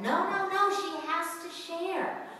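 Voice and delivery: lightly mocking student objection; objecting students. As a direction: imitate students insisting she must share. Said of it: "They just don't buy it".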